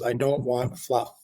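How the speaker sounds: slow, deliberate boss line; slow, stern. Retold or imitated. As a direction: spell it out slowly, a hint of stern boss. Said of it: "He goes".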